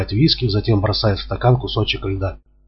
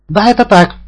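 high, loud hysterical cry; hysterical shout; 11 semitones higher, 6 dB louder than usual. A narrator's reading. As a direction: scream it at him, losing control. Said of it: "истерически кричит она". (истерический крик)

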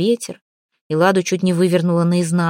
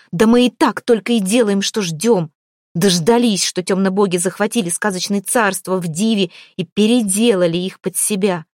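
angry outburst. Acted. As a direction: tear into them angrily. Lada rages at the group.

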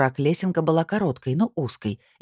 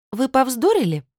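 sharp, much higher accusing question; angry question; 10 semitones higher, 4 dB louder than usual. Acted. Assistant angrily accuses Domra over the body, high and loud. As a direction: jab at her with suspicion. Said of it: "зло спросила".

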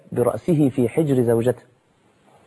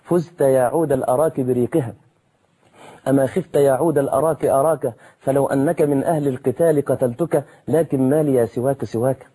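reciting verse. Retold or imitated. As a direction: recite the lines like a classical poem, savouring each word. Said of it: "ويقول".

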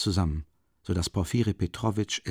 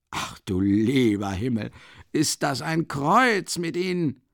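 amused exclamation; 3 semitones higher, slower than usual. Acted. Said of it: "mit vollkommen lustiger, schlauer ... Miene".

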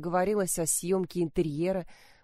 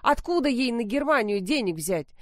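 louder, higher angry yelling; shouting; 5 semitones higher, 3 dB louder than usual. Acted. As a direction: yell it at your daughter. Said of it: "Мать заорала".

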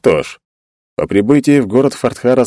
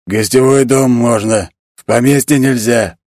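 slow, growled warning; genie growl; 3 semitones higher than usual. Acted. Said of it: "прорычал джин".

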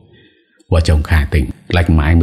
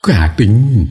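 mild cry of recognition; surprised cry; 6 semitones higher than usual. Acted. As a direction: gasp her name in disbelief. Crowd spots the lost daughter.

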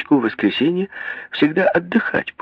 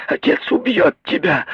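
higher, shrill cry; shout; 6 semitones higher than usual. A narrator's reading. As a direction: throw the threat at her. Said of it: "крикнула миссис Броуди".

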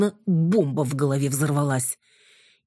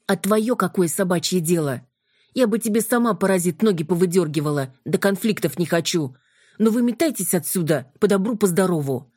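angry scolding; 4 semitones higher than usual. Acted. Юля злится на блондина.

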